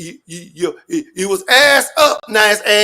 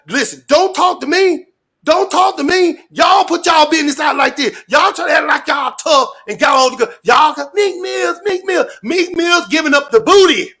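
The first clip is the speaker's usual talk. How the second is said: angry shout; 4 semitones higher than usual. Real, not acted. Scolding the crowd, calling out.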